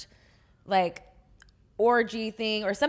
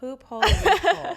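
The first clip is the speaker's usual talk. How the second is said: laughing; 8 semitones higher, 7 dB louder than usual. Real, not acted. Repeats new phrase, cracking up.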